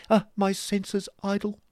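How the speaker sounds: high, loud, gushing fop; affected husband. Acted. Husband flatters his wife.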